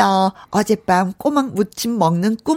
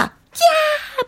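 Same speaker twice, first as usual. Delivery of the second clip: excited cry. Real, not acted. Craving cockles, calls out.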